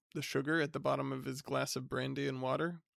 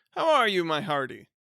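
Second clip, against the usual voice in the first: top of his voice; 3 semitones higher, 7 dB louder than usual. Acted. Hearty cousin greeting the bachelor at the top of his voice. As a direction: boom it out like a jovial bore. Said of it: "spoke at the top of his voice".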